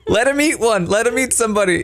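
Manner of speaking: excited shout. Real, not acted. Urging sacrifice while chased.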